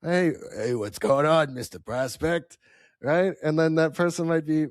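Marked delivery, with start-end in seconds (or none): 0.0-2.6 friendly upbeat hello; cheerful sales opener; happy greeting. Shown as a demonstration. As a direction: greet him like you're glad he picked up. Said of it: "talk a little bit more happy".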